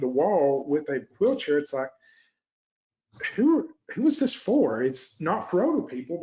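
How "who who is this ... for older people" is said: high-pitched, pointed disbelief; mock incredulous challenge, pitched up; incredulous questioning. Coach voicing a reaction to a cramped office, incredulous.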